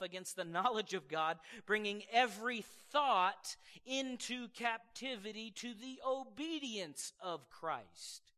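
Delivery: slow, measured Bible reading; a pastor reading the verse to the congregation, slowly; scripture reading. Acted. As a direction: read each phrase with weight.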